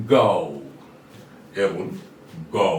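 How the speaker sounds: "go" with the ao glide, said twice; ao sound. Shown as a demonstration. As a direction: model "go" as g plus ao. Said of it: "এটা উচ্চারণ হবে go". ("go" আও উচ্চারণে)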